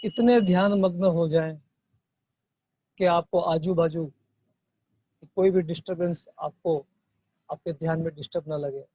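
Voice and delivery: soft meditation guide with long pauses; guided meditation. Real, not acted. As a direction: gently guide them into watching the breath. Guides breath meditation softly. (धीमी आवाज़ में ध्यान का मार्गदर्शन)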